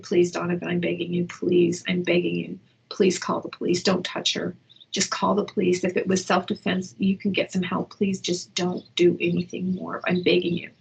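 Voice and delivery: evenly pleading, composed and steady; calm pleading. Shown as a demonstration. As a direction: beg him gently without raising the voice. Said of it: "I was not saying it in this calm voice".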